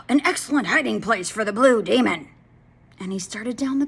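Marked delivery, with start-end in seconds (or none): 0.1-2.3 gloating farmer. Acted.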